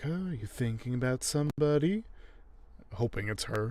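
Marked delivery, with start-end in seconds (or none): 0.0-2.0 higher, questioning lilt imitating her; retold flirty woman. Neely hinting to Alan she hopes it's her, mock coy. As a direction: play her fishing coyly for a name. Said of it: "she's like".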